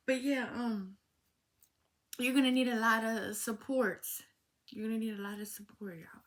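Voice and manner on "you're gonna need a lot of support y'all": whispered repeat. Real, not acted. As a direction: whisper it again for emphasis.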